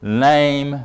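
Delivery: "name" set apart and drawn out; stress on name. Shown as a demonstration. Preacher flags the key word "name", stressed. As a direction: land firmly on "name". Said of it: "I'm emphasizing this word name".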